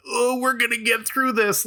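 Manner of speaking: high mock-soothing celebrity voice, very lifted; mock consoling. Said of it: "be like".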